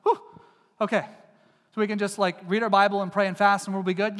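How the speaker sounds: lightly voiced relieved sigh; imagining Jesus relieved there's another way; mock relief. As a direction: play the man let off the hook. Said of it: "he would have said".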